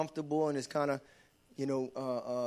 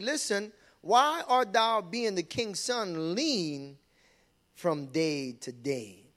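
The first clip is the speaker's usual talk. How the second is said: concerned friend asking; much slower than usual. Acted. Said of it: "the Bible says he asked him".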